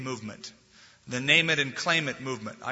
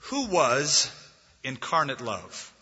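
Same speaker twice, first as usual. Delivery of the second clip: calm tone; slower than usual. Retold or imitated. Preacher retelling Doctor Martin answering network owners, calm and slow. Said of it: "in a very calm tone".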